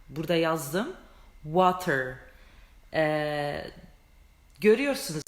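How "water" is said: "Water" with a clear English w; "Water" starting with a rounded w, not v; water said right. Shown as a demonstration. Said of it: "Su İngilizcesi water". ("Water" dudaklar yuvarlak w ile)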